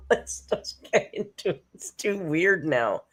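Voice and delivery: loud, giggly protest; laughing protest. Real, not acted. Streamer flustered at feeling like Amber, laughing. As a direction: protest loudly through real laughter. Giggling fit during greetings.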